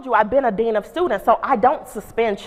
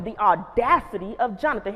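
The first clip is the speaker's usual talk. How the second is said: "the audacity of Jonathan" said offended, with "audacity" stressed; outraged at his nerve; indignant; 3 dB quieter than usual. Shown as a demonstration. Principal fuming about the student Jonathan, indignant. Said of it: "the more my tone of voice changed".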